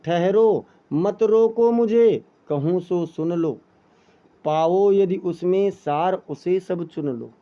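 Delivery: slow, pleading cry of mat roko mujhe; dramatic verse reading. Acted. Teacher voices Kaikeyi begging Ram to listen, slow dramatic verse. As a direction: plead with Ram to let her speak, slowly.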